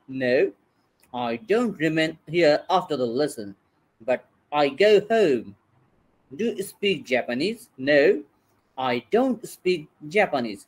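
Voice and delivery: slow, careful drill questions and answers for students to repeat; slow model reading. Shown as a demonstration. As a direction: read each line slowly and clearly, like a model for the class. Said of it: "এখন আমি যেভাবে উচ্চারণ করবো".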